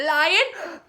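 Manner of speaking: lion face called out loud; big lion. Shown as a demonstration. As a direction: throw it wide open and loud. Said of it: "make everything in your face big".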